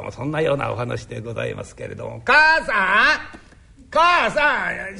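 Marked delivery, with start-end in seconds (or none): 2.2-5.0 loud drawn-out call; yelling across the room. Acted. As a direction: call her from the next room. Husband calling wife from afar.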